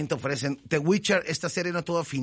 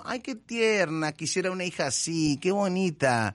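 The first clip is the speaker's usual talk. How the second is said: fond cooing; 3 semitones higher than usual. Retold or imitated. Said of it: "yo la veo... y digo".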